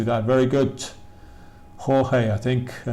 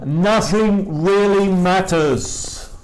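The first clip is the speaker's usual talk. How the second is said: slow model reading; 7 semitones higher, 4 dB louder, much slower than usual. Shown as a demonstration. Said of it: "teacher models sentence slowly".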